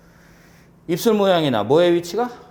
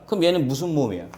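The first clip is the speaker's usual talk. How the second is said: normal talking voice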